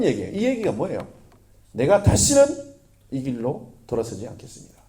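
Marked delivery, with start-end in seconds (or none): 1.7-4.8 vow quoted. Retold or imitated. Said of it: "이 신앙 고백인 거예요".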